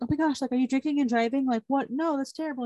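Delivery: lightly voiced appalled parent; imitated scolding mom. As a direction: act out a mom's shocked telling-off. Mother voiced scolding her daughter.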